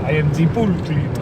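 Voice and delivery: hammed-up Brazilian accent; stereotypical accent. Co-host showing the stereotype, mock Brazilian accent. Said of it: "It's a stereotypical sort of".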